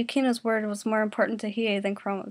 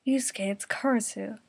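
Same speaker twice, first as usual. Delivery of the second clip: whisper; 3 dB quieter than usual. Acted. Warning Yusuke about the enemy.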